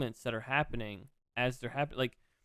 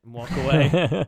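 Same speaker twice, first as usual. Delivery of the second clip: loud and slow; booming and drawn out; 11 dB louder, slower than usual. Retold or imitated. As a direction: belt it out as the story peaks. Retold quote, much louder.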